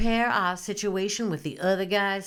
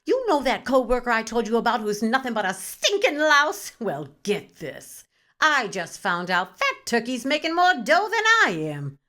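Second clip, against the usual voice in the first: gossipy outraged phone call; 3 semitones higher, 4 dB louder than usual. Acted. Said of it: "we call our people and share our outrage".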